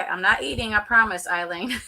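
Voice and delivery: talking around ice in the mouth; words round a piece of ice. Real, not acted. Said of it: "There's a piece of ice in my mouth".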